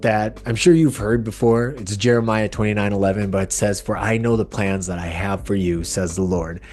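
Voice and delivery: projected podcast opening; podcast intro. Acted. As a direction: present the episode and welcome the guest. Scripted-sounding introduction to the show.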